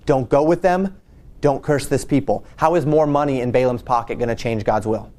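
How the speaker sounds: ordinary talk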